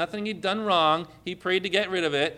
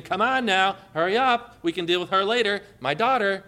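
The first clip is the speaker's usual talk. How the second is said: urgent Jairus; 4 semitones higher than usual. Retold or imitated. Voicing Jairus urging Jesus.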